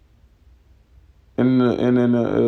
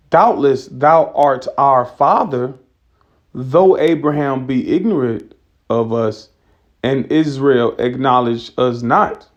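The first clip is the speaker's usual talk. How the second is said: slow, weighty reading of the verse; scripture reading; slower than usual. Acted. Preacher reading Isaiah to his flock, slow and solemn. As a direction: lay each phrase down slowly, like holy writ.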